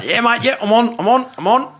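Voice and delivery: high excited dad voice; hammed-up excited old man. Dad excited, quoted in story.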